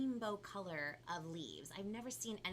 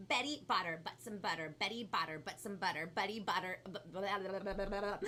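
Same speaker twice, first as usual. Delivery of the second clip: really fast. Shown as a demonstration. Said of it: "now we're gonna go really fast".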